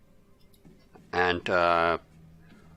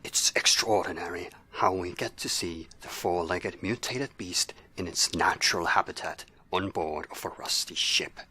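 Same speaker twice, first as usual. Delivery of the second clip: hushed wildlife narrator voice; nature documentary; 2 semitones lower than usual. Pretend. Narrating monster like wildlife film.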